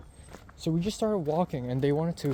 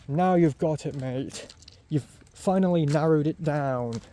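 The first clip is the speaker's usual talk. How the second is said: British bartender; 4 dB louder than usual. Retold or imitated. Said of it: "this British guy".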